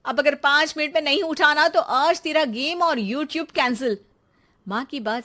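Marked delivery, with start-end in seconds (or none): 0.0-4.0 loud, nagging wake-up scold; exasperated mom threatening to cancel games; scolding mother. Acted. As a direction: yell the lazy kid out of bed. Mother yelling son awake.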